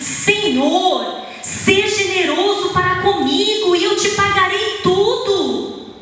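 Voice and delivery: high, imploring plea for mercy; pleading servant. Acted. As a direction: beg your master to be patient. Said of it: "com entonação".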